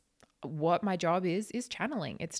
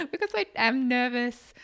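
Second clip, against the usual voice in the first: nervous voice; 6 semitones higher, 5 dB louder than usual. Real, not acted. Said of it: "this is my nervous voice".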